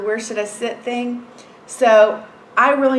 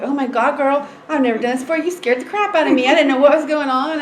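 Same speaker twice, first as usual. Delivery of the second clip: higher-pitched, worked-up complaint; exasperated relief, pitched up; retold flustered venting; 5 semitones higher, 3 dB louder than usual. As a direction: let out the stress to a friend. Venting to client after scary hearing.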